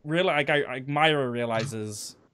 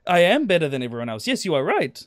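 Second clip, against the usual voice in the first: put-on broken German accent; 3 dB louder than usual. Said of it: "playing on the I don't understand English".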